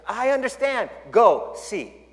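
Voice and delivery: put-on high, lively Chinese-accented English; thick Chinese accent. Pastor telling a joke, clerk in a thick Chinese accent. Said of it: "really thick Chinese accent".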